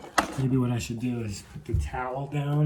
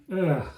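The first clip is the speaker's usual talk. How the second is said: disgusted groan; 5 semitones higher, 4 dB louder than usual. Real, not acted. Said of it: "I really got a terrible whiff of that".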